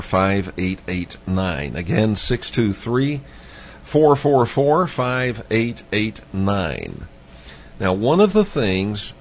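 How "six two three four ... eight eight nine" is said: measured, emphatic phone-number read; slow, deliberate repeat. Real, not acted. Host repeats the phone number for listeners, slowly and deliberately. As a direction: spell out the digits slowly, drawing out the last ones.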